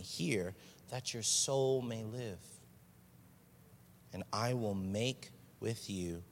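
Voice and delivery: fervent preached invitation; preaching the Lord's call. Retold or imitated. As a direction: call out with growing force. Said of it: "He says".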